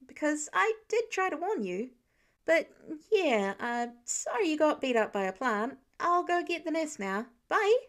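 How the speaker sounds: put-on chatty young Spider-Man explaining; lightly voiced eager teenage boy; eager teen hero.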